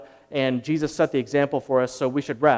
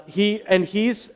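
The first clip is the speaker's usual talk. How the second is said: ordinary delivery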